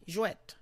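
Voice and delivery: "Jouet" with a crisp final T; "Jouet" ending on a clear T; pronounce the T. Shown as a demonstration. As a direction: sound the T at the end of "Jouet". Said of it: "Pronounce the T".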